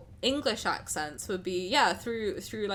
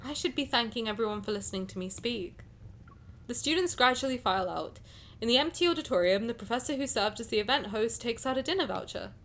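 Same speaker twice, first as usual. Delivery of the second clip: story narration; 2 semitones higher than usual. A narrator's reading. Reads game story aloud.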